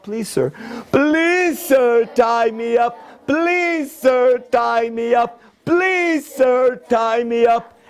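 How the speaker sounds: high pleading cries of please sir; panicked screaming. Acted. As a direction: beg frantically like tiny creatures. Little creatures beg in panic.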